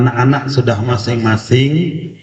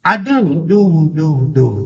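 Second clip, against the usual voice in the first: higher-pitched cry repeating like a bounced echo; imitated echo; 4 semitones higher, slower than usual. Mountain echo answering the fallen child, imitated echo. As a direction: mimic an echo, syllable after syllable. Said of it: "ada suara pantulan".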